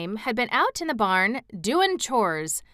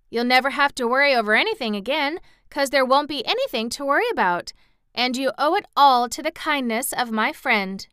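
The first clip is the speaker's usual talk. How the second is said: put-on bright girl, a bit higher; lightly voiced cheerful Dorothy; 5 semitones higher, 5 dB louder than usual. A narrator's reading. Dorothy reassuring aunt and uncle, cheerful girl. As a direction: reassure the old folks happily.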